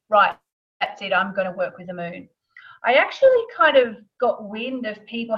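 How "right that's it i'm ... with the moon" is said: imagined inner thought. Retold or imitated. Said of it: "sit down one day and think".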